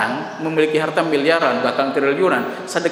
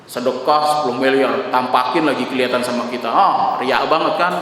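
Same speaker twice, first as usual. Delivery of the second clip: sneering gossip; 2 semitones lower than usual. Retold or imitated.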